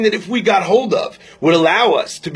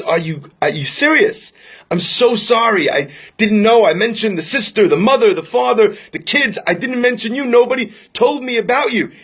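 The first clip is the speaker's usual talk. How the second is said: mildly mortified, climbing higher as it goes; flustered apology; 4 semitones higher than usual. Retold or imitated. Young rabbi apologizing to the overlooked brother, flustered. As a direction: apologize in rising dismay, listing off the relatives.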